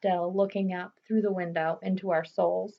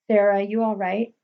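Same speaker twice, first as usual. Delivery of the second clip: calling out; 6 dB louder than usual. Acted. Father calling from downstairs.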